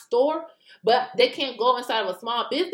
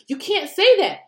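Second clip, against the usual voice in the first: mocking frustrated official; 6 semitones higher, 4 dB louder than usual. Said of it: "It's like".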